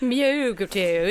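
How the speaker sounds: slowly drawled mock British "Myoguru"; mock accent. Co-host playfully tries the wrestler's name in a put-on British accent. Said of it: "It's quite fun to say with an accent".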